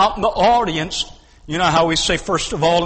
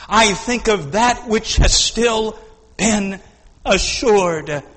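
ordinary talk, nothing marked

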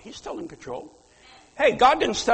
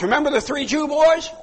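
ordinary talk

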